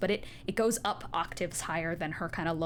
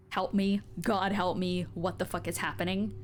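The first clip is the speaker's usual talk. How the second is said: mock terrified scream. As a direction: beg for help in terror, half-voiced. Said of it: "the screams go from".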